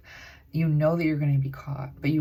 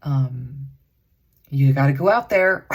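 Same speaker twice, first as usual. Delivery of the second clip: mock pushy voice; 10 dB louder, slower than usual. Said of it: "and think".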